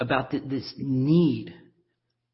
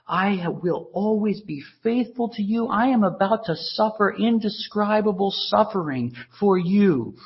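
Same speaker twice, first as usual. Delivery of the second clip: voicing Jesus; 5 semitones higher than usual. Preacher voicing Jesus to disciples.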